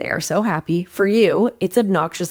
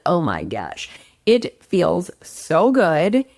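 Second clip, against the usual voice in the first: dreamy relief; much slower than usual. Acted. Imagining being acknowledged.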